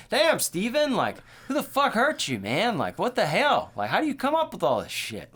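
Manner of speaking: high, loud disbelief; incredulous outburst. Real, not acted. Ranting at Stephen King about his cruel plots, incredulous and loud. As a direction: hurl it at him in shocked amazement.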